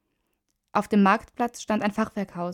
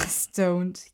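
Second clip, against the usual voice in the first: a small giggle on the word; giggled; 2 semitones lower than usual. A narrator's reading. Teenager teasing his groaning friend, giggling. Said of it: "kicherte Alex".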